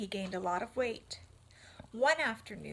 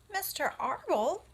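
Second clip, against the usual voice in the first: higher, louder tearful question; sobbing; 8 semitones higher, 5 dB louder than usual. Acted. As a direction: sob out the name. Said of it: "sobbed Wilbur".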